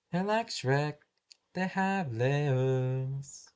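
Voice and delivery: lightly put-on odd voice, drawn out very slowly on layers; a hint of a goofy character voice; silly put-on voice. Student quoting Shrek to teacher in a light put-on voice. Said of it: "You don't need to speak like that".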